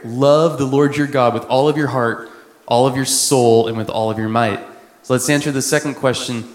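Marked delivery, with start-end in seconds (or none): 0.0-4.6 louder, ringing proclamation; louder proclaiming the verse; proclaimed. Shown as a demonstration. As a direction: declare the verse to the room. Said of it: "That's it right there".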